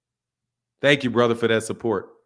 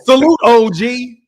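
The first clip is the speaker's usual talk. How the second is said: loud greeting; 9 semitones higher, 7 dB louder than usual. Real, not acted. Answering caller's greeting loudly.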